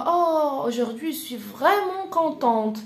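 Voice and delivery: lightly acted happy exclamation; mock delight. Child telling mother about a happy day, mildly delighted. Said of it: "ماماك وتقول".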